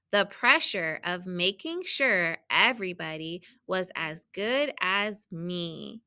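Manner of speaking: measured storybook reading with stressed key words; children's story read-aloud. A narrator's reading. Teacher reading a picture book to students, storybook read-aloud. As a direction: read it out carefully for young readers.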